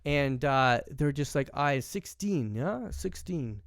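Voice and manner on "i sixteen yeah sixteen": slow, drawn-out imitation German accent; casual mock-German accent, very slow. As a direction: play a German teen, stretching the words. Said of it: "trying to get in the German accent".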